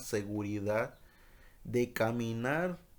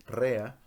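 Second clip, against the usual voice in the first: "rea" with the weight on the e; stress on the E; 3 dB louder than usual. Shown as a demonstration. Teacher sounding out a Hebrew word, "rea" stressed on E. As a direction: stress the first vowel of "rea". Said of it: "con acento en la E".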